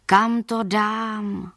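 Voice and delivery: slow, drawn-out ghost voice; ghostly call. Acted. Ghost by the cemetery wall asking into the night, slow drawn-out moan. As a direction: moan it slowly like a restless ghost. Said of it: "slyšel podruhé jasněji".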